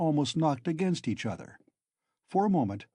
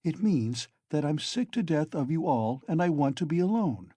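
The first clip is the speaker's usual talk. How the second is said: calm; 3 semitones higher than usual. Acted. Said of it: "Raskolnikov answered calmly".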